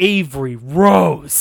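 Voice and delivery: very loud, stern voice, one word drawn out. Retelling how he scolded her by name, acting mock-stern. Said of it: "I was just got real stern".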